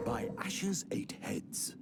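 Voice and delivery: breathy whispered oath; a whispered gasp of disbelief; stunned whisper. Acted. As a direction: hush it out in awe. Stunned by the revelation.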